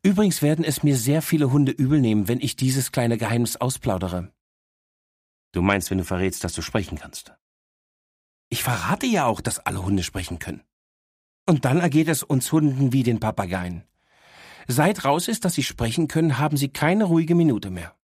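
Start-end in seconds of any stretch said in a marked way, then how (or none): 0.0-4.3 lightly voiced cheeky dog, a bit higher; a know-it-all little dog teasing her owner; cheeky talking dog. Dog Miss Happy speaks. 8.5-18.0 lightly voiced cheeky dog, a bit higher; a know-it-all little dog teasing her owner; cheeky talking dog. Dog Miss Happy speaks.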